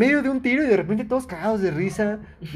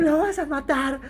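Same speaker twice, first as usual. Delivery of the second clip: high mock crying shout through laughter; frantic yell; 7 semitones higher, slower than usual. Friend retelling the mother's cry to stop the fight, laughing mock wail. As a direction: laugh while wailing like a panicked mom.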